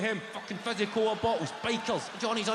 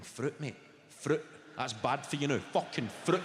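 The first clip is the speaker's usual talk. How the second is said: incredulous; 4 semitones lower, 3 dB quieter than usual. Retold or imitated. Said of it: "I'm thinking".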